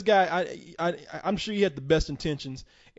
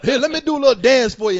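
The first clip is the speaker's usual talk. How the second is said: mocking eager sap; 5 semitones higher, 8 dB louder than usual. Mocking the convention's invitees to his cohost as a gushing fanboy, loud and laughing. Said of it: "the fuck kind of fucking sap".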